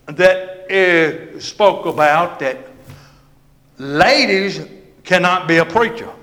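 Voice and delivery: preaching. Real, not acted. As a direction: preach it out, high and forceful. Preaching at full force.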